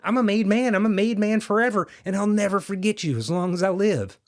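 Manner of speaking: ecstatic, disbelieving triumph; overjoyed gloating. Acted. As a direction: crow it out in high delight, slowing on the big words. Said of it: "lay there perfectly happy".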